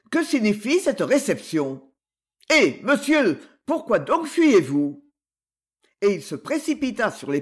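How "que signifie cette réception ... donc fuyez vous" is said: appel plus fort, plus aigu sur « Eh, monsieur »; héler le fuyard avec indignation; s'écrie. Acted. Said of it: "s'écria Darsac". (Darsac hèle l'étranger qui s'enfuit, cri indigné)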